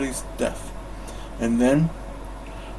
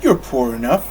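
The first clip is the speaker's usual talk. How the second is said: grumbling; 3 dB louder than usual. Acted. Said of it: "Scrooge grumbled".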